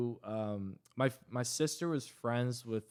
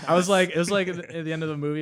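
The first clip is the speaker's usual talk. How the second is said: laughing through the words; giggling while talking; 6 semitones higher, 10 dB louder, much faster than usual. Real, not acted. Laughing while telling the story.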